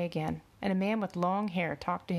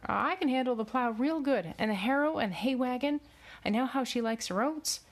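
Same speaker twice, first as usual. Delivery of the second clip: higher, urgent pleading; desperate; 6 semitones higher than usual. A narrator's reading. Farmhand argues he should go with horse, desperately. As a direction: make your case desperately, pitch raised. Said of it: "his voice taking on a tone of desperation".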